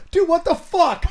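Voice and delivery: loud, high angry yell; furious shout at a friend who just slapped him; retold outraged shout. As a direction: blow up at the slap. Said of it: "She goes".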